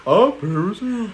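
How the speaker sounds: breathy baby-doll high voice, mock Paris; mock Paris Hilton impression. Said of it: "She was like".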